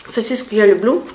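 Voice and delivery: chewing while talking; talking between bites; mouth full. Real, not acted. Seen 2: chews and takes pepper strands into mouth during speech.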